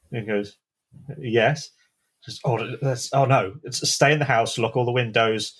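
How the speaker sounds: frightened grandparent rushing out orders; alarmed grandparents. Acted.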